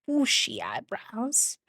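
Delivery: slow breathy hush; a slow affectionate whisper; fond whisper. Real, not acted. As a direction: whisper it lovingly.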